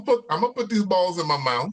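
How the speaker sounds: high, playful shout. Real, not acted. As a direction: announce it with cheeky glee. Jokes loudly about meatballs.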